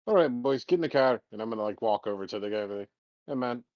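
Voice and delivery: a light Irish brogue, talking man to man; Irish accent. Acted. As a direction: play a friendly Irish lad. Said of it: "give 'em a big ol' Irish grin".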